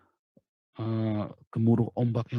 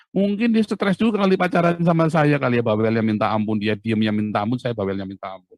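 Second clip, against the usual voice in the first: teasing; 10 dB louder than usual. Real, not acted. Teasing about his wife.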